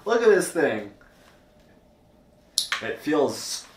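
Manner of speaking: through helmet chin guard; speaking inside full-face helmet. Real, not acted. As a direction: voice muffled by helmet. Seen 1: Full-face helmet worn over mouth until removed around 7 seconds.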